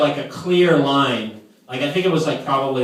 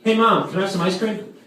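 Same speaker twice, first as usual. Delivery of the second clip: put-on little kid asking; 7 semitones higher than usual. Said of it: "it's like".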